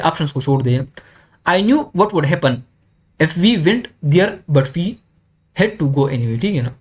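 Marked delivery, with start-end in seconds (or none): 1.5-6.4 reading the example. Shown as a demonstration. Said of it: "हम खुद इसको punctuate करते हैं".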